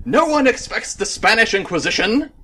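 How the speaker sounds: high-pitched, hammed-up mock British accent; bad British accent. Podcaster botching a British accent as an example, hammed-up. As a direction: proclaim it in a poor fake British accent. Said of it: "Pretty sure that wasn't British at all".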